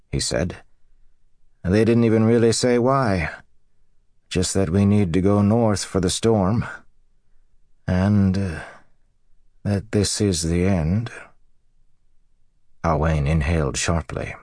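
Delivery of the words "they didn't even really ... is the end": lightly voiced farmer, raised pitch; dazed husband relaying news. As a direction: pass on a puzzling message to your wife. Voices husband explaining the warning.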